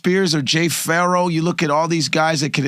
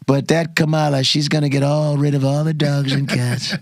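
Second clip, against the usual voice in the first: Trump impression.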